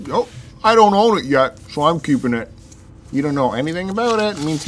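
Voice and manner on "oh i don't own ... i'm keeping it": mocking whiny voice. Mocking co-host's excuse.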